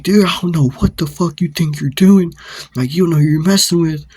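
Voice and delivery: imitating an aggressor, high-pitched; retold indignant rant; angry threat. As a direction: act out a hostile warning. Acted threat in quarrel.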